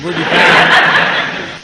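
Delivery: slow, loud laughing line; laughing through the name. Pretend. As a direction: crack up as you say it. Old-timer joke, laughing.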